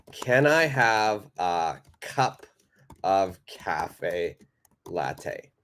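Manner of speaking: slow full form. Shown as a demonstration. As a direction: spell out each word slowly as the correct form. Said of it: "That's grammatically correct".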